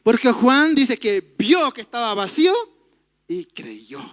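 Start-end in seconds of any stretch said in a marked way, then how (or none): 3.3-4.0 soft, low and hushed, in awe; tender. Acted. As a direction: let it sink in gently. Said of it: "Qué lindo". (con ternura, en voz baja)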